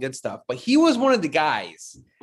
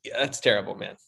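suppressing burps mid-sentence; swallowing burps while talking; holding back burps; 7 semitones lower, 4 dB quieter, faster than usual. Real, not acted. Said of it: "I just burped a lot there".

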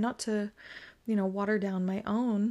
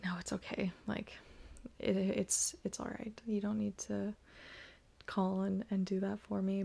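whispered refusal; 7 dB quieter than usual. Retold or imitated. Declining partner's offer again.

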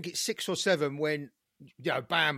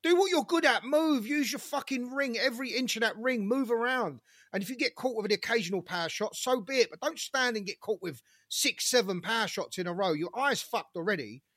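higher-pitched mock yell at a boxer on TV; retold screaming at the TV; 4 semitones higher than usual. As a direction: urge him to move, reliving the shouting. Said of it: "I was screaming at the T V".

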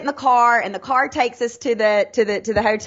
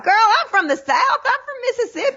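Steve Harvey; 13 semitones higher than usual. Retold or imitated. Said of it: "And he was like".

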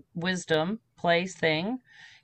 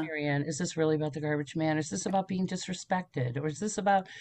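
softer, calm questioning voice of inner truth; 3 semitones lower, 5 dB quieter than usual. Retold or imitated. Her inner voice questioning her anger, softly calm. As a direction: ask gently, like a wise inner voice. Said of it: "this higher truth comes in and goes".

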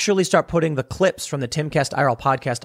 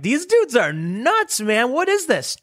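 dismissive scoff; 9 semitones higher, slower than usual. Retold or imitated. Mocking the doomsayers on the bus.

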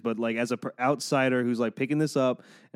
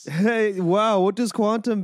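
higher, louder, slow fake amazement; sarcastic mock wonder; 8 semitones higher, 5 dB louder, slower than usual. Real, not acted. Mocking his friend's hero Quasar, slow sarcastic awe. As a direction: drawl it out in fake awe to tease. Mocking a generic superhero's powers.

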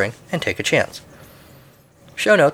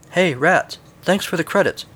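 lightly acted, higher-pitched voice; Ben Kenobi; 6 semitones higher than usual. A narrator's reading. Old hermit addressing the rats, lightly mocking. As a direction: call out in a lifted, teasing tone. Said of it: "Ben Kenobi's voice suddenly says".

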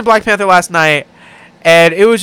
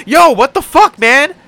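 high-pitched, half-hearted protest at a driver; acted-out, harmless road rage; mild road rage; 9 semitones higher, 4 dB louder than usual. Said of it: "that's my road rage".

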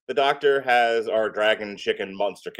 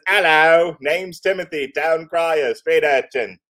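loud, higher mock Cockney; Cockney accent; 7 semitones higher, 6 dB louder, slower than usual. Shown as a demonstration. Repeating the urchin's introduction for Melissa, put-on Cockney accent. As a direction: show off an amateur Cockney urchin voice. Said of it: "Do I have a good Cockney accent?".

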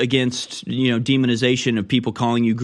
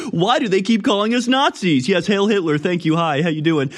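mock Nazi skit; 6 semitones higher than usual. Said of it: "It's like".

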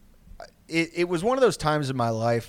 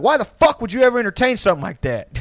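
raised, high-pitched scolding; mock exasperated dad; 9 semitones higher, 7 dB louder than usual. Dad to son about the hospital girl, mock exasperated. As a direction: imitate a father demanding an explanation.

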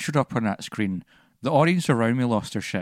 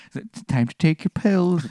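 irritated snap; 8 semitones higher, 4 dB louder than usual. Retold or imitated. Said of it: "he's just like".

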